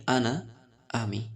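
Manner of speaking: slow, drawn-out আনা, আমি for students to copy; slow model reading. Shown as a demonstration. Teacher models আনা, আমি slowly for students to repeat. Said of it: "তাহলে বলেন".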